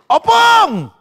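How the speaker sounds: high, loud laughing call; laughing shout. Real, not acted. Preacher laughing at grandpas, high and loud. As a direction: burst out laughing as you call.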